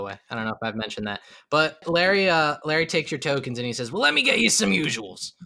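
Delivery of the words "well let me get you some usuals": a lightly voiced tavern keeper; barkeep voice. Larry offering the party their usuals, lightly voiced. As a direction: offer the drinks like a sly barman.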